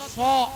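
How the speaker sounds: "so" with lips pushed forward; rounded pouting lips. Shown as a demonstration. Teacher contrasting sad with sin, "so" through rounded lips. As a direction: pout on a rounded "so". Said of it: "monyong ya".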